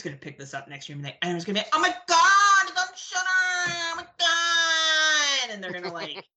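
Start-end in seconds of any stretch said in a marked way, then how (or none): 1.7-5.5 high, loud, hammed-up fangirl squeal; mock fan excitement. Imitating fans when Shudder picks the film up, mock-excited squeal. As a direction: gush in mock ecstasy, stretching the words out.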